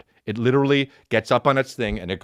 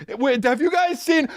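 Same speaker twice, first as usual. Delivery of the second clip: high confused voice. Retold or imitated. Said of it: "It's just".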